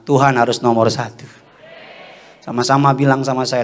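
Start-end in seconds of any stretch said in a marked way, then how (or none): 0.0-1.3 firmer, rallying statement; more spirited. Shown as a demonstration. Preacher rousing congregation to put God first, firmer rallying tone. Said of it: "Kurang semangat".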